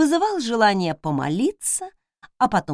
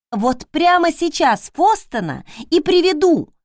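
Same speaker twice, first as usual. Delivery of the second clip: threatening; 6 semitones higher, 5 dB louder than usual. A narrator's reading. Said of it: "пригрозила я".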